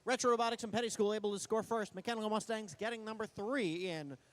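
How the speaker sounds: fast, energetic match commentary; live play-by-play. Real, not acted. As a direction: call the action as it happens.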